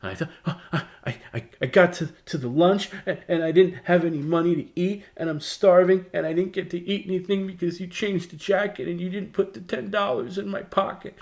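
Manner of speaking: high, loud tearful wail; high-pitched teary child pleading; crying child. Retold or imitated. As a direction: blurt it out like a sobbing kid to his mom. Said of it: "I just start bursting out in tears and I'm crying".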